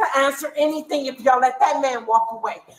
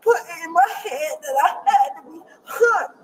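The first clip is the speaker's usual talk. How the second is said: crying; 4 semitones higher than usual. Real, not acted. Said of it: "She don't even know why she crying".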